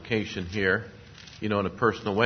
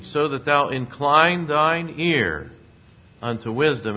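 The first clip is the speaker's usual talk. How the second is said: slow and louder, stretching incline; preaching verse; 5 semitones higher, 6 dB louder, slower than usual. Acted. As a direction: proclaim the verse like from the pulpit. Preacher proclaims proverb verse.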